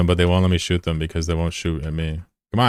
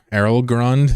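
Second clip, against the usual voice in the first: Errol Grund? rising high and louder in disbelief; incredulous question; 6 semitones higher, 4 dB louder, slower than usual. Real, not acted. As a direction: ask Errol Grund? as if it can't be real. Rereading the name incredulously.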